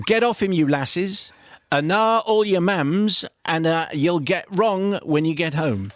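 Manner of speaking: broad Geordie caretaker shouting; Geordie accent. Retold or imitated. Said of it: "shouting in broad Geordie".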